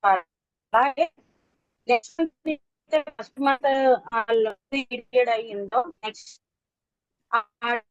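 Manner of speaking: choppy voice over a bad call line; cutting in and out on a weak signal; voice breaking. Real, not acted. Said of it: "మీ voice break అవుతుంది".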